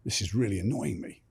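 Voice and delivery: whispered, annoyed under the breath; irritated whisper. Retold or imitated. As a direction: whisper it to yourself, fed up. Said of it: "I'm like".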